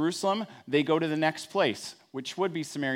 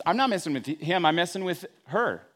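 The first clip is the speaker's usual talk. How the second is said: defensive excuse; 3 semitones higher than usual. Retold or imitated. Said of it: "my response is".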